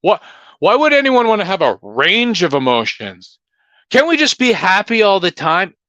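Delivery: a mocking whiny voice; mocking simpleton voice. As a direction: sneer at happy-only people. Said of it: "'cause you're".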